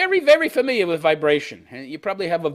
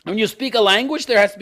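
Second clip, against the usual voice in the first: mock airy artist; 12 semitones higher, 7 dB louder than usual. Host mocking the bridge lover's answer in a spacey voice. Reading Jodi's quote.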